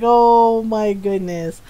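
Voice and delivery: slow, stretched "oh"; drawn-out dismay. Retold or imitated. Woman reacting to being taken for a kid, drawn-out dismay. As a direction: draw it out in mild disbelief.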